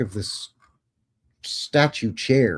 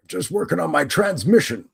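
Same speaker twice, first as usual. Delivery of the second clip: put-on higher, hammy British accent; 7 semitones higher, 4 dB louder than usual. Austrian sculptor explains his work, in a mock British accent. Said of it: "Why I'm doing a British accent for Austrians".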